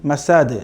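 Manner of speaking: মাসাদ with an echoing bounce on the final d; qalqalah. Shown as a demonstration. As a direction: release the d of মাসাদ with a small rebound. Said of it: "দাল তো কলকলা হবেই".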